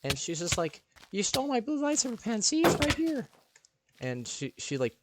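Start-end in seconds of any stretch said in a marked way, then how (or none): 1.1-3.3 put-on shrill girl accusation. Girl insists pen is hers.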